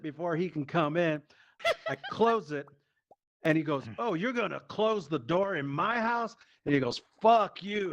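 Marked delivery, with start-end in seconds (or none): 4.0-6.4 indignant dad. Retold or imitated. Acts out dad's angry challenge. 7.2-7.9 mock furious yell, pitched up; angry dad. Acts out dad before door kick.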